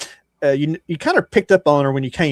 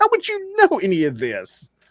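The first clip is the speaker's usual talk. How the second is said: indignant halfling character voice, higher pitch; 6 semitones higher than usual. Voicing a halfling bard standing on a chair, looking down: indignant halfling voice. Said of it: "he's like".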